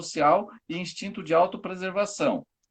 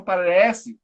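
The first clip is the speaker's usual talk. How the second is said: "parece" drawn out and stressed; verbal air quotes; 6 dB louder than usual. Real, not acted. Teacher qualifies a claim about self-preservation types, stressed "parece". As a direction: lean on "parece" as if in quotation marks. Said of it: "vou colocar isso entre aspas".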